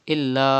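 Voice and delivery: إلا held out for five counts; drawn-out madd on إلا; long madd. Shown as a demonstration. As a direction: stretch the alif of إلا long and slow. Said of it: "like this".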